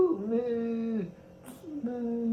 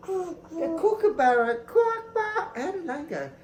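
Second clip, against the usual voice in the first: excited build-up; 10 semitones higher, 4 dB louder than usual. Real, not acted. Building up to bird call.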